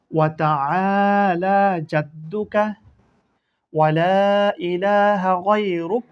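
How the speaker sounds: slow, measured chant of the prayer; slow prayer recitation. Shown as a demonstration. Teacher recites the Sana prayer to students, slow and chanted. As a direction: recite it gently, word by word, for pupils to follow. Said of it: "আবার বলা শিখি উচ্চারণ".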